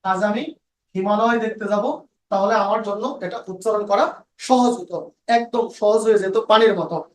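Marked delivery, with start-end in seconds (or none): 0.0-2.1 হিমালয় said as one smooth word, no gaps; easy flowing single breath. Shown as a demonstration. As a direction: run it all together smoothly in one breath. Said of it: "এক শ্বাসে বলতাম".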